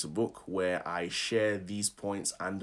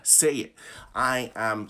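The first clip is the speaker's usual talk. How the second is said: louder, pushy coaching; aggressive; 3 dB louder, slower than usual. Real, not acted. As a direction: urge them with a touch of aggression. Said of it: "I don't mean to be so aggressive".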